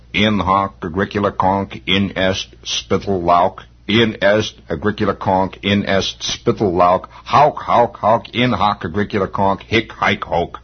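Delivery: solemn mock Latin, slow and chanted; mock Latin rite. Lodge leader gives the secret rites by phone, mock solemn chant. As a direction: intone fake ritual words like a lodge elder. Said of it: "I have to give him the rites".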